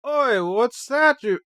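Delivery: a high, loud, slowed-down attempt at an Australian accent. Gamer mocking Australians, in a failed Australian accent. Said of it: "I can't do an Australian accent".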